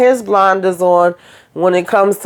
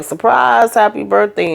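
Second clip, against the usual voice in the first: mock surprise shout; 4 semitones higher than usual. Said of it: "and they like".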